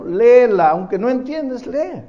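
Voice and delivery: insistent command. Retold or imitated. A pastor firmly telling a young man to read the Bible, loud insistent.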